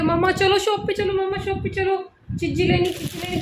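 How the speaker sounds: lightly voiced little boy begging for the shop; imitating son's nagging. माँ बेटे की ज़िद की हल्की नकल करती हुई. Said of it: "शॉप के लिए चिल्ला चिल्ला के".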